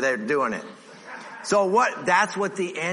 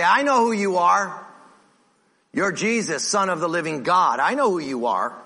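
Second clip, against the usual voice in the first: demon voice; 4 semitones higher, 4 dB louder than usual. Acted. Demon speaking to Jesus.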